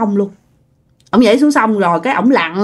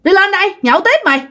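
higher-pitched acted call to a friend; calling out to someone; 5 semitones higher than usual. Second uncle calling Út back up to keep drinking, acted higher-pitched call. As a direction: call down to him, voice raised in pitch. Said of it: "ông hai mới kêu".

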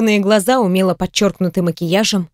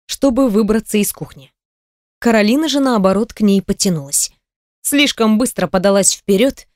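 plain reading voice

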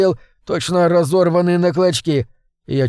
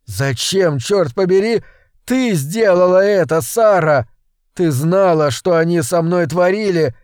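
rising fury; 3 semitones higher than usual. Acted. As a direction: hurl the betrayal back at her. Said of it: "во мне вскипает ярость".

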